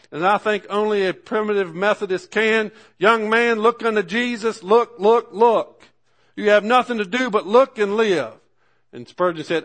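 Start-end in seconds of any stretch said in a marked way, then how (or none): 3.0-8.3 loud, higher preacher's shout; shouting at the top of his voice. Retold or imitated. Old preacher shouting to young Spurgeon in the pew, loud imitated shout. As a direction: call out to the young man with full force. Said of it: "he shouted at the top of his voice".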